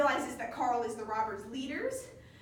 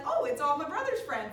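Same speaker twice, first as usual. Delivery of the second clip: louder, higher hammed-up alarm; mock panic; 5 semitones higher, 7 dB louder than usual. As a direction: play a comically alarmed villain. Villain panics as robbers approach.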